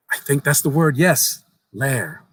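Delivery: lightly voiced young boy. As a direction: tell it like an eager child sharing a secret. Boy agrees.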